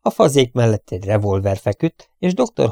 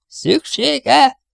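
sharply higher, louder amazed echo; astonished; 14 semitones higher, 4 dB louder than usual. A narrator's reading. Housekeeper astonished at the professor's plan, high amazed cry. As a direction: jump up in pure disbelief. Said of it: "Csodálkozott az asszony".

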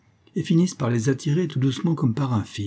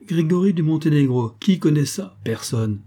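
mocking officer; 4 semitones higher than usual. Officer mocks before crowd.

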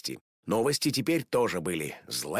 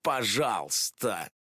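grumbling; 3 semitones higher than usual. Acted. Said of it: "пробурчала".

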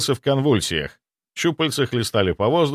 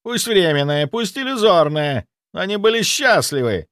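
spray spit as you rant; spluttering fury; 8 semitones higher than usual. A narrator's reading. Zaitsev spluttering furiously in self-justification. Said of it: "брызгая слюной".

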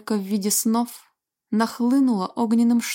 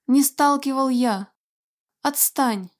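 angry denial; 4 semitones higher than usual. Acted. Dragon denies, shouting.

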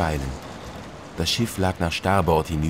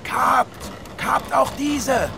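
boatswain's answer; much slower than usual. Acted. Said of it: "klang die Antwort".

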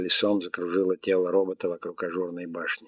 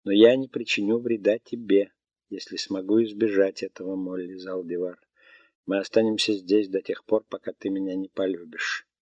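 lightly voiced melodic robot; a calm machine stating facts. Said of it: "голосом робота".

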